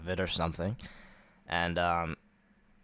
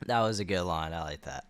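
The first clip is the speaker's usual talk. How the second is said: whisper; 2 semitones lower than usual. Real, not acted. Co-host approving the old line, whispered. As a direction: breathe it under your voice. Quiet aside about the line.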